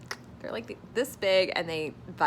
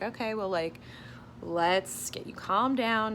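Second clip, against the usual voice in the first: therapist voice; 4 semitones higher than usual. Retold or imitated. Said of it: "this is my version of what she said".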